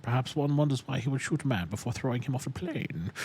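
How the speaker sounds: put-on movie villain voice; Bane. Friend offers to take Bane, then does the villain impersonation. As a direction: play the musing film villain. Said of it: "you do the Bane voice pretty good".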